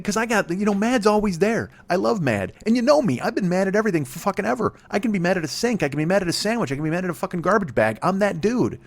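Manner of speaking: high-pitched, indignant ranting; worked-up rant. Acted. Comedian boasting he gets mad at anything, worked-up high rant.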